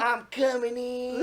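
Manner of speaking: high, loud yell, stretched out slowly; hammed-up battle scream. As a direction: announce your charge in a drawn-out scream. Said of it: "I'll be just scream".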